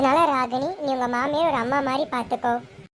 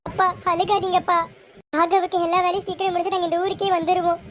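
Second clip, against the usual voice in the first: higher, pleading daughter's voice; tearful consoling; 4 semitones higher than usual. Acted. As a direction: soothe a crying father while upset yourself. Daughter soothes her crying father. (அழுகையோடு ஆறுதல் சொல்லும் குரல்)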